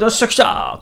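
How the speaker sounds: high excited whoop; excited cheer. Retold or imitated. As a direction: cheer like you just hit the jackpot. Imitating his old excited self. (興奮して「よっしゃ」と叫ぶ)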